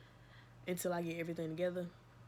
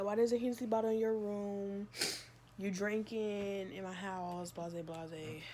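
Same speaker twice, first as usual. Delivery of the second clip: mild mock anger; slower than usual. Mother catches the bottle in her daughter's room, mild mock anger. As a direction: confront the daughter over the bottle. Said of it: "She didn't say that".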